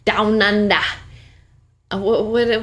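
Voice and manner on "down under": hammed-up Australian twang; mock Australian accent. Echoing the co-host's joke, mock Australian accent. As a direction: say it like a fake Aussie. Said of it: "that's very Australian".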